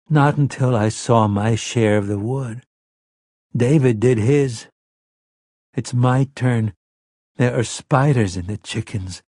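put-on a seven-year-old confessing what he fears; frightened little boy. King hypnotised, speaking as a frightened boy.

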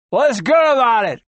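big joker growling at the doctor; growled. Acted. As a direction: throw it back at him with a growl. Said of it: "growled a big joker".

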